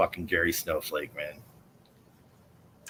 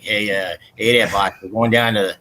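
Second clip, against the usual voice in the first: mock South Boston accent; Southie accent; 3 dB louder than usual. Showing the disliked Boston sound, mock Southie accent. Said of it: "the Southie accent where it's like".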